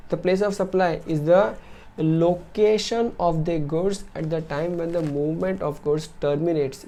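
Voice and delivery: reading the rule out word by word, very slowly; slow, deliberate reading of a legal definition; slow dictation. Acted. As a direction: dictate it slowly so students can note it down.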